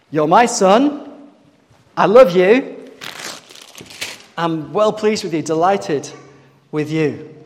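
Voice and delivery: slow, loud, proclaiming God's words; slow grand proclamation of a father's love; voice from heaven. Acted. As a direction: announce it like a voice booming from the sky.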